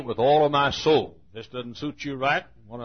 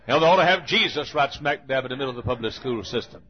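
higher, impassioned pulpit cry; fiery preaching; 3 semitones higher than usual. Acted. Pastor rails at the congregation in a fiery higher voice. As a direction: thunder it from the pulpit.

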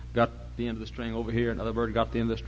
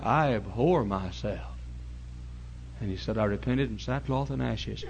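humbled penitent; 6 dB quieter than usual. Acted. Humbled Job answers God.

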